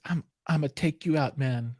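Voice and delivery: hopelessly faked Italian-American mobster accent; a hint of Italian-American tough guy; Italian accent attempt. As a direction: try an Italian accent and miss it.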